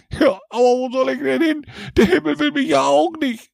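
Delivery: put-on a pitiful drunk near tears; weepy Jack. A narrator's reading. Jack begging the devil, weepy. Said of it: "weinte Jack".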